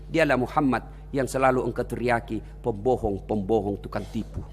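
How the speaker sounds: quiet, low, tearful words; tearful reply. Acted. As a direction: hold back tears as you answer. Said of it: "menetes air matanya".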